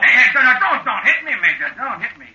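pleading through laughter; laughing plea. Acted. Friend laughing as the giant threatens him. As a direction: beg him off while laughing.

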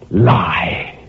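slow, tearful words; weighed down and near to tears; a broken, tearful statement; anguished. Acted. Tortured word spoken slowly.

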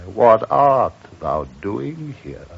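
slow, lamenting question to himself; mournful cry. Acted. Yorick alone in his room, asking himself in slow lament. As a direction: ask it slowly, as if grieving for himself. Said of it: "cried I".

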